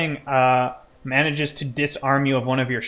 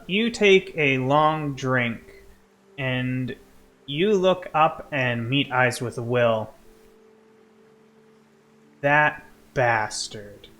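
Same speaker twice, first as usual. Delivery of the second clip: game master narration. Acted. Game master telling player of a hated enemy, dramatic narration. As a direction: let each phrase of the hatred land.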